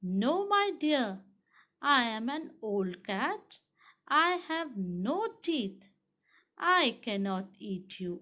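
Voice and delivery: very slow, drawn-out storybook cat; lightly acted old cat, each word stretched. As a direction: coax the parrot slowly, word by word. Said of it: "पुस".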